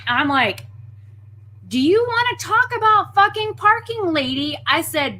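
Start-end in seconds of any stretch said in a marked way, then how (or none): 1.7-4.6 retold angry challenge. Speaker fires back.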